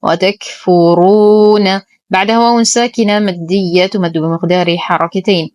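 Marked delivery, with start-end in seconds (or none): 0.0-1.8 وتكفرون with a breathy ك and a heavy ف-ر; slow tajweed recitation. Shown as a demonstration. Teacher recites the word for students, slow measured chant. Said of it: "نتم ضمة الفاء والراء مع التفخيم".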